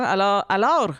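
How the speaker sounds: trying out a rolled R in "Alors"; testing a trilled "Alors". Shown as a demonstration. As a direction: roll the R at the end of "Alors". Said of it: "si tu le fais en roulant des airs".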